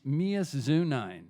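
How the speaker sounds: "Mias Zunine", drawn out syllable by syllable as written; misspelled name. Retold or imitated. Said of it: "my marriage certificate said".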